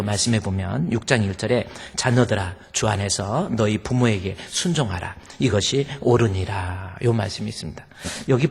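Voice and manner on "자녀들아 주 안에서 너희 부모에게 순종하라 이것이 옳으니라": scripture reading. Acted. Preacher reads the verse to the congregation, solemn. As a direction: read it like holy text, measured.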